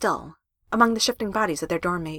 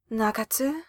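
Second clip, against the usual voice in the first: slow; 2 semitones higher, 6 dB quieter, slower than usual. A narrator's reading. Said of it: "Mizuki said slowly".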